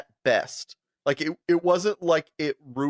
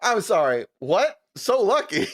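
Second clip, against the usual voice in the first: incredulous repeat; 5 semitones higher than usual. Retold or imitated. Incredulous at the guy.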